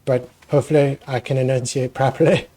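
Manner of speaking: speaking with a sore throat; a little hoarse from a sore throat. Real, not acted. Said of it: "I have a little bit of a sore throat".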